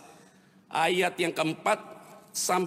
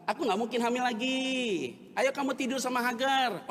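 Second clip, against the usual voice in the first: higher-pitched pleading wife; Abraham's wife; 6 semitones higher than usual. Retold or imitated. Abraham's wife urges him toward Hagar, higher-pitched wifely voice. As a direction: act out a wife urging her husband, pitch raised. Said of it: "Makanya istrinya datang".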